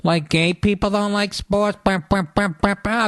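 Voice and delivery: mock the people who'll complain; a mocking imitation of the critics. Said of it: "I can hear the people already".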